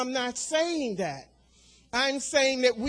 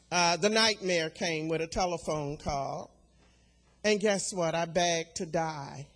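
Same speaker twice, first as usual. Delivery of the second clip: hushed grief; 4 semitones lower, 6 dB quieter than usual. Real, not acted. Recalls grief of sons' deaths.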